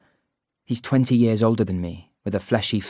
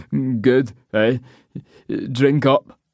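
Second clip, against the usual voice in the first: slow, loud pushy local; Scottish pub man; 3 semitones higher, 4 dB louder, much slower than usual. Acted. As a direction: lean in and drawl the question. Man urges her to drink.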